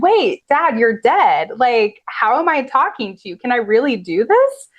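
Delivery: retold disbelief, pitch leaping on the opening word; lightly acted amazed confusion; bewildered realization. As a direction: question it in mild astonishment.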